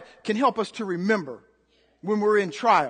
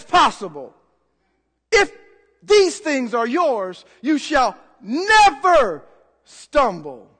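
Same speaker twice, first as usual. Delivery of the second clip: loud, raised preaching voice; emphatic preaching; 3 semitones higher, 5 dB louder than usual. Real, not acted. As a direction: punch out key words for the congregation.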